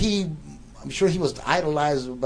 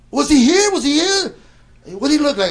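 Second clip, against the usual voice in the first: imitating a loud, high, frantic shout; frantic questioning; 13 semitones higher, 10 dB louder than usual. Roommate learns who left the note, imitated frantic questioning. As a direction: fire off questions like an overexcited fan.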